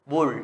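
"bul" closed with the tongue curled upward; curled-tongue final L. Shown as a demonstration. Teacher repeats the example for students, curled-tongue final L. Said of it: "Các em sẽ uốn lưỡi lên nhá".

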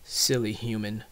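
low, dismissive creature voice; deep aside from a scornful dragon; dragon's inner thought. A narrator's reading. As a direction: think it to yourself, pitched well down. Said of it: "Drago thought".

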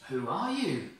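a lightly voiced startled shepherd; voice of Moses. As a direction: ask it with wonder. Moses answers the voice.

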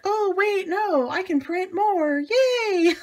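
high and bright, then a cheering yay; excited realization. Retold or imitated. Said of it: "And it's like".

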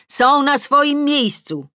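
loud, high, slow call; shout. A narrator's reading. Adam answering from the garden, shouting. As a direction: stretch it out so it carries. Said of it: "Adam krzyczy z ogrodu".

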